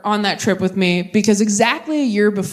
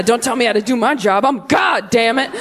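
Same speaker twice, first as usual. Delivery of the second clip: irritated God. Pretend. God shouting back.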